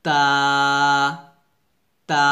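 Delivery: তা with a light T and open "aa"; thin, open "taa"; thin normal T. Shown as a demonstration. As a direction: keep তা light and unforced. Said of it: "পাতলা করে নরমালভাবে আমরা উচ্চারণ করব".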